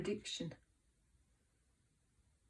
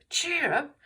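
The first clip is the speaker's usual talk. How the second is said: loud, bright cheer up; expressive cheer; 9 semitones higher, 7 dB louder than usual. Shown as a demonstration. Teacher modelling an expressive line for the class. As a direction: show the class how to read with expression. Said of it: "read it with expression".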